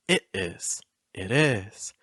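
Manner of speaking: it IS, weight on "is"; iambic stress. Shown as a demonstration. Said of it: "Notice that it's a weak first part".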